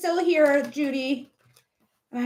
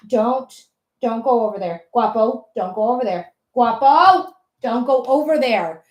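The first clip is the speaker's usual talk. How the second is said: calling the cat off; 3 semitones lower, 4 dB louder than usual. Real, not acted. Warning cat away from window.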